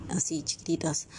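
breathy whisper, voice dropped away. Real, not acted. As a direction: whisper it, as if it hurts to say. Recalling neglected babies, softly.

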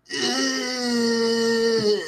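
long, held "ugh"; drawn-out groan. Acted. Streamer greeting a viewer by a dirty nickname, long held groan. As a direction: groan on and on at a steady pitch. Exaggerated disgust after naughty greeting.

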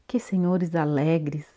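slow whispered aside; whispering. Acted. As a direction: murmur it to yourself, slowly. Iona's quiet aside.

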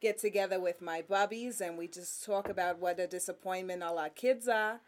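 lightly voiced New Jersey lady gossiping; a hint of a nagging New Jersey mom. New Jersey bubbie complaining to friends about the kids, lightly voiced. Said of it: "I love doing a lady from New Jersey".

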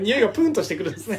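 laughing. Real, not acted. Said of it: "え、おかしかった？".

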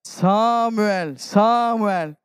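put-on a stronger, carrying call for the boy. Shown as a demonstration. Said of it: "Dere klarer litt bedre".

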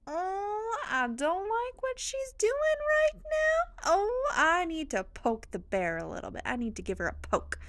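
high, taunting voice of the enemy; mocking enemy voice. The enemy scheming against the speaker, high mocking taunt. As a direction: squeak it out like a gleeful troublemaker. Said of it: "That is the enemy going".

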